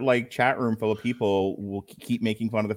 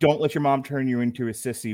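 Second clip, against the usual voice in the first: ordinary talk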